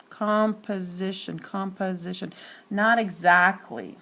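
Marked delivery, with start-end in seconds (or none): 0.1-2.3 composition sounded out softly, syllable by syllable; O sounds shown in composition. Shown as a demonstration. Teacher checking for a short O, composition sounded out. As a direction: test the O in composition. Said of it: "change to a short O".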